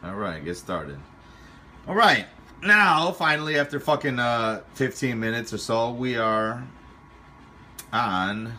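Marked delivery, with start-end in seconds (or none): 1.9-8.5 excited. Real, not acted. Finally done after long update.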